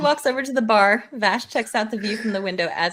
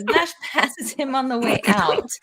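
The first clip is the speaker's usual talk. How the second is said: laughing whisper. Real, not acted. Narrator whispers through laughter.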